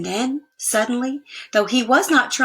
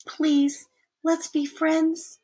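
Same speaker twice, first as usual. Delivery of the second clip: higher, slow plea; pleading; 8 semitones higher, much slower than usual. Acted. Arthur pleading with brother.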